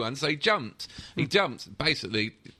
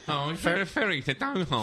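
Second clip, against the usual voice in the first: put-on Chelsea accent; 3 semitones higher than usual. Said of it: "In that accent again as well".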